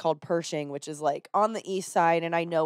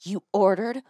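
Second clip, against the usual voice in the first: imitating furious wife; slower than usual. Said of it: "She literally just was furious".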